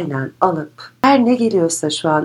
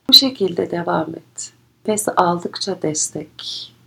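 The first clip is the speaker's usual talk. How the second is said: guided meditation; 4 dB quieter than usual. Acted. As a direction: guide them gently inward.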